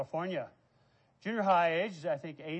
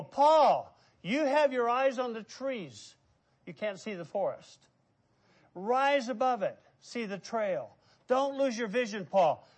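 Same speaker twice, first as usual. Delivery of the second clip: urging voice of God; 4 semitones higher, 5 dB louder than usual. Acted. God's voice urging Paul.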